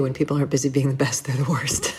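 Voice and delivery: rushed, dropping into a whisper on the worst; quick line that sinks to a whisper; fast, fading to a whisper. Shown as a demonstration. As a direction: speed through and whisper the punchline. Quote then its reverse.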